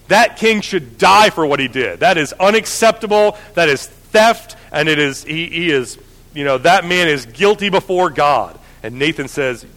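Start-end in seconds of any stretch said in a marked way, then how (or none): 0.1-4.6 rising, slowing indignant outrage, a touch louder; mild mock fury at the thief king. David condemning the rich man, mild furious outrage. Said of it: "David is furious".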